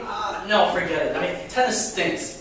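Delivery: sulky dismissal. Retold or imitated. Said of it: "Why did I say".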